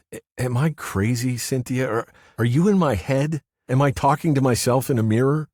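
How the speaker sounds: man's voice, stammering doubt; Paul, shaken. A narrator's reading. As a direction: ask it afraid of the answer.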